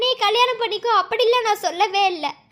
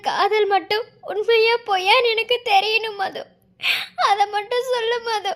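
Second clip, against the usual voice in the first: tearful plea. Acted. Lover begging for the truth.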